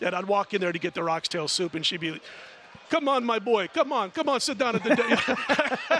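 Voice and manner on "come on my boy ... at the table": put-on high, slow, easy, unhurried Jamaican accent. Recalling a lady at a restaurant, the speaker imitates her in a female Jamaican accent. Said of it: "That was in a female Jamaican accent".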